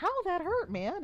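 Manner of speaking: high, loud yelp of protest; loud mock-hurt whine, pitch falling at the end; acted pained complaint. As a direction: cry out as if just bitten. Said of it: "and you're like".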